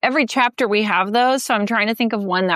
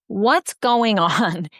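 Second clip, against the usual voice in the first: gentle whisper; much slower than usual. Shown as a demonstration. Parent gently asking the son what's wrong, whispering. Calm parent opens the talk.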